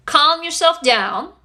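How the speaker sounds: slow, firm order to calm down; commanding. Shown as a demonstration. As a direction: say it like a stern command. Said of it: "and it's a command".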